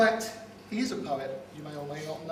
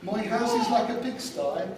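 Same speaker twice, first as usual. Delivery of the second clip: put-on a light West Country accent, recited; best man's put-on West Country poem voice; 3 semitones higher than usual. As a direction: recite it in a mock West Country burr, playful. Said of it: "tell this poem in a West Country accent".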